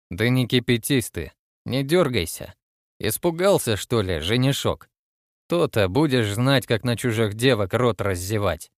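sinister voice. Acted. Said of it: "зловещим голосом произнёс незнакомец".

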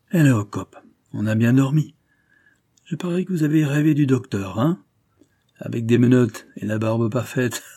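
a lightly voiced bluff sea captain, teasing; jovial skipper. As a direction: rib him like a hearty old skipper. Skipper teases detective jovially. (capitaine jovial et moqueur, voix légèrement jouée)

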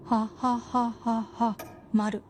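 careful read-back; slow repeat while writing. Real, not acted. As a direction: echo the dictation slowly. Wife repeats dictation while writing.

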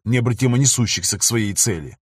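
ordinary delivery

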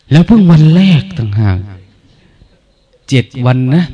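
loud, exasperated complaint; grumbling meditator. Retold or imitated. Monk acting out a fed-up retreat-goer complaining loudly. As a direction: moan loudly about the long practice day.

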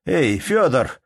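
calling out. A narrator's reading. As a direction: shout for Фёдор across the house. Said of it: "крикнул Калинович".

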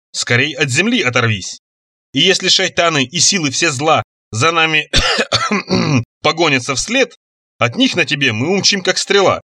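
размеренно, торжественно, как стихи; читать заклинание нараспев; декламация заклинания. Acted. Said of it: "Ши декламировал только что составленное заклинание". (торжественная декламация)

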